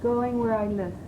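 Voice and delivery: measured, deliberate verse recitation; poetry reading. Shown as a demonstration. Student reading the other poem to coach, measured poetry reading. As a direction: declaim it phrase by phrase, with pauses. Reads second Whitman poem.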